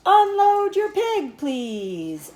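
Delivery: high, loud, slow public address call; loudspeaker voice. A narrator's reading. Fair announcer ordering the pig unloaded, booming PA. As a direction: boom it across the fairground. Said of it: "said the loudspeaker".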